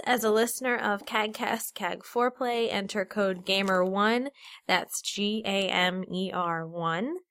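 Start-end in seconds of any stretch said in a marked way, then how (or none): 2.7-7.2 losing voice, slow and tired; strained, fading voice; voice giving out. Real, not acted. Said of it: "I'm losing my voice".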